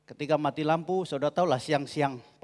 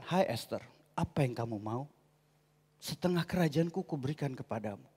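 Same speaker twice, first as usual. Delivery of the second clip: formal king, hungry; 4 semitones lower, 8 dB quieter than usual. Acted. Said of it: "saya yakin ngomongnya beda".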